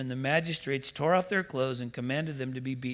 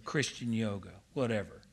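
mock dismissive shrug; 6 semitones lower, 7 dB quieter than usual. Mocking a dismissive churchgoer.

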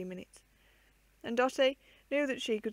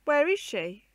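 teeth chattering; 5 semitones higher, 7 dB louder, slower than usual. A narrator's reading. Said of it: "between her chattering teeth".

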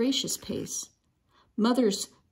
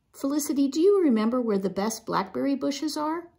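twinkling; 6 semitones higher than usual. A narrator's reading. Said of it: "with a twinkle in his eye".

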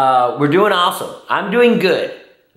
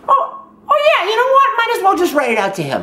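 mock surprise; 11 semitones higher than usual. Mom character feigns surprise.

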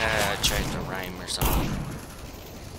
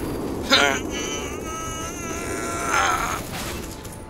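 long high-pitched laugh. Real, not acted. Player laughing at own bathroom bit, high laugh. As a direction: laugh high, falling away.

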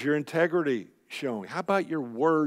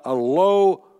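guttural muttering; 6 dB louder than usual. Shown as a demonstration. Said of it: "It means a".

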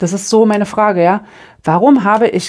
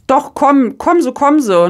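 eager waving on; 6 semitones higher than usual. Retold or imitated. Retold helpful calling to driver.

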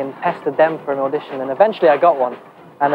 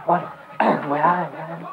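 Newcastle accent; 6 dB quieter, slower than usual. Shown as a demonstration. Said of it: "practice, practice".

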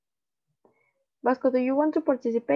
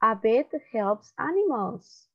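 slow, even read of "A vet helps animals."; slow model reading; slower than usual. Shown as a demonstration. Teacher reading slowly for students to repeat. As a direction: say it slowly for the class to copy.

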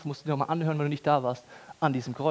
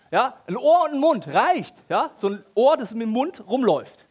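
mock stingy God; 5 semitones higher, 5 dB louder than usual. Mocking God's imagined stinginess.

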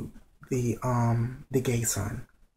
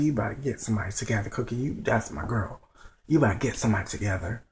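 sassy cheer; 3 semitones lower, faster than usual. Retold or imitated. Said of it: "I said".

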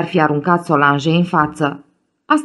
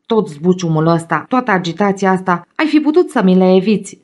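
furious shout. Acted. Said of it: "strigă el furios".

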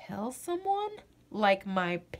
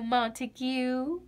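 whispered name. Acted. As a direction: breathe the name tenderly. Parent says son's name lovingly.

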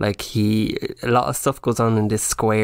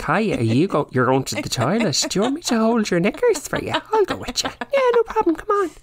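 much higher, fast, overeager chirp; desperate eager guest; 12 semitones higher than usual. Retold or imitated. Guest begging to join the toilet trip, high eager chirp. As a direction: squeak it like someone desperate to escape. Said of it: "to be like".

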